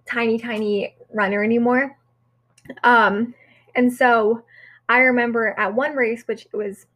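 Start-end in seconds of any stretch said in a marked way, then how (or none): 4.9-6.9 talking through a mouthful of cereal; mouth full. Real, not acted. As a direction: speak while chewing cereal. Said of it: "I'm still eating cereal".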